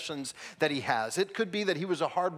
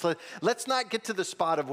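ordinary talk

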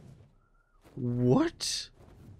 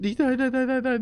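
panicked no; 9 semitones higher, 4 dB louder than usual. Real, not acted. Panicking as creatures attack.

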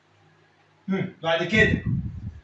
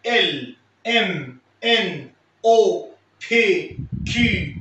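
letters spelled slowly with emphasis; teacher reciting the full alphabet again; slow recited alphabet; slower than usual. Shown as a demonstration. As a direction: recite the whole alphabet for the class. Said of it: "تاني من الاول كله".

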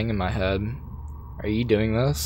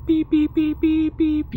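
mock censor bleep. Cursing out the stranger, bleeping himself in a much higher squeak. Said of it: "I'm going to beep".

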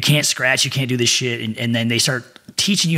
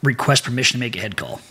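recruit at attention. Retold or imitated. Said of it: "I would say".

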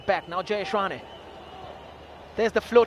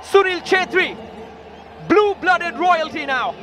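raised, proud trophy call; triumphant call; 4 semitones higher than usual. Real, not acted. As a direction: celebrate the win. Final whistle, trophy won.

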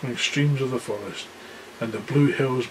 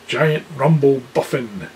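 giant's voice. Acted. Giant answers Aslan.

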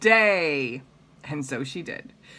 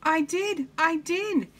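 Amelia voice; 11 semitones higher, slower than usual. Acted. Amelia Bedelia voiced in story.

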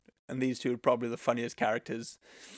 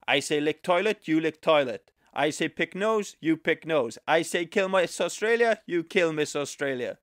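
raised, louder mock dictator ordering his men; 5 semitones higher, 3 dB louder than usual. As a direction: bark the orders like a cartoon tyrant. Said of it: "he's like".

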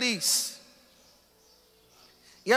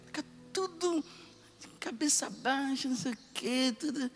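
mock gloomy mumble; 9 dB quieter than usual. Mocking downcast Christians.

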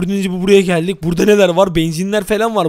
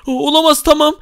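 higher, stammered dismay; mock fright; 5 semitones higher than usual. Gamer gives in to armed man, high mock-scared stammer. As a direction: stammer in play-acted fear. Reacts to the gunman's threat.

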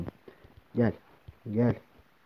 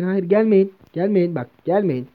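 higher, louder frantic no; panicked plea; 5 semitones higher, 8 dB louder, slower than usual. Real, not acted. Player pleading with attacking mobs, panicked and loud. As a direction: beg them to back off. Begging the mobs to stay back.

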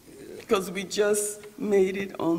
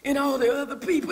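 voice of the Lord. Retold or imitated. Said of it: "the Lord spoke to me and said".

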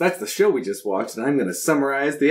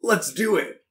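higher, punchy game-character catchphrase; video game soundbite; 6 semitones higher than usual. Real, not acted. Cohost agrees to summarize episodes, like a video game soundbite. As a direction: say it like a canned game voice line. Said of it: "That sounded like a soundbite from, like, a video game".

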